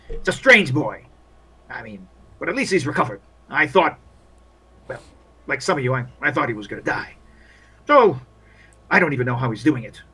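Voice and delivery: lightly voiced grumbling field doctor; disapproving army doctor. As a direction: mull over the odd soldier, disapproving.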